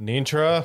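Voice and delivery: loud, high-pitched yell. Voicing an officer calling a name up the stairs: yelling up the stairs. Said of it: "He kind of yells up the stairs".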